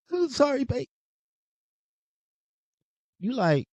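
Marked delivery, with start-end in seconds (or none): 0.1-0.9 put-on high, teary-sounding whimper of a boyfriend apologising; mocking a boyfriend who cries at movies, high and teary; mock crying boyfriend. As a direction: play a soft crying boyfriend, mocking him. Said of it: "he always crying at every movie".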